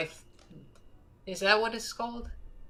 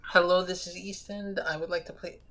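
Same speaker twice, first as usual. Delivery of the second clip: phone voice; 4 dB quieter than usual. Shown as a demonstration. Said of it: "I'll give you my phone voice".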